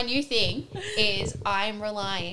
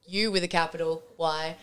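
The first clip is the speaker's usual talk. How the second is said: slow dictation; 3 semitones lower than usual. Shown as a demonstration. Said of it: "Just says".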